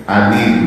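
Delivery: "alim" begun on a light alif; plain first vowel in "alim", no ain. Shown as a demonstration. Teacher giving the word for painful, "alim" with alif. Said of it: "alif ya".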